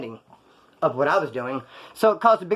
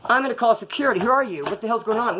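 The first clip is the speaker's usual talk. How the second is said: raised-pitch indignant confrontation; alarmed challenge; 5 semitones higher than usual. Retold or imitated. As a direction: challenge an intruder in a higher voice. Staff member catches him, acted.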